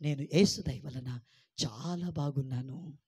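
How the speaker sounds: slow model line; slow confession. Shown as a demonstration. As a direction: lead the repeat slowly and gently. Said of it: "పలకరే అమ్మా".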